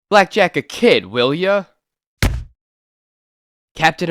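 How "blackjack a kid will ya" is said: outraged shout. Acted. Hero outraged at attack.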